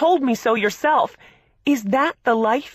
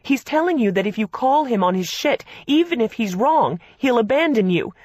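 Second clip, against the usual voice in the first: furious sister; 6 semitones higher, 6 dB louder than usual. A narrator's reading.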